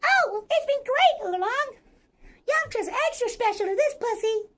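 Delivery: high, squeaky cartoon voice; Poor. Answering Oolong about Yamcha, high Poor voice. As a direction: gush in a high little voice. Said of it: "I can kinda do Poor".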